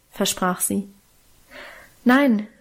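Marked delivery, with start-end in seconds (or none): 2.0-2.5 a firm, louder-edged no; refusing. Acted. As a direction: fend the offer off. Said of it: "wehrte ich ab".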